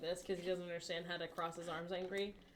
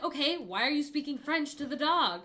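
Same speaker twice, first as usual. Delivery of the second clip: incredulous question; 5 semitones higher, 8 dB louder than usual. Retold or imitated. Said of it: "I'm like".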